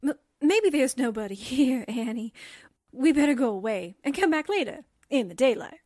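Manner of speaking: nervously suggesting a retreat; timid, uneasy pleading; frightened stammer. Acted. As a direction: stammer at first, trying to get away. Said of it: "I think you're frightened".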